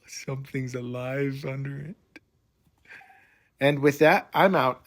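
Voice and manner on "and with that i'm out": louder, quick exclamation; a boy calls out that he is leaving; loud exclaim. A narrator's reading. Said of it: "Isaac exclaimed".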